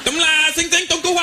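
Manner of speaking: high squeaky gibberish on the phone; mock Chinese gibberish. Shopkeeper calling his wife, high mock Chinese gibberish.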